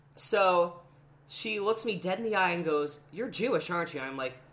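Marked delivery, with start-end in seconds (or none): 3.1-4.0 put-on aggressive tone. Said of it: "in an aggressive kind of way".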